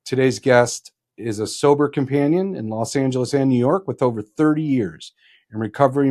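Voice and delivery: formal show-opener delivery; podcast host introduction. Acted. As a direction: present the guest like a prepared announcement. Host reads guest introduction.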